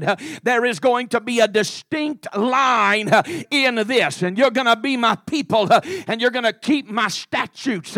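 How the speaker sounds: steady revival-preacher cadence, phrase by phrase; firm sermon delivery with a pulsing rhythm; driving preaching. Acted. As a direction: preach it with insistent, punched phrases.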